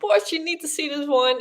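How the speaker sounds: ordinary delivery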